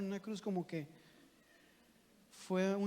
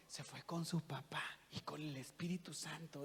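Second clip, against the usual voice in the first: put-on much softer, childlike little voice; little girl's answer; 3 semitones lower, 10 dB quieter than usual. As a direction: answer sweetly like a small daughter. Father voices daughter's answer. (padre imitando a su niña, voz infantil y muy suave)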